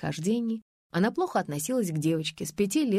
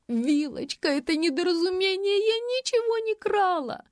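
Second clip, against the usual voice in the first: high, crying protest; rising higher into a wail of innocence; tearful plea; 12 semitones higher than usual. A narrator's reading. Faina bursts into tears at the interrogation, wailing. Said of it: "Фаина заплакала".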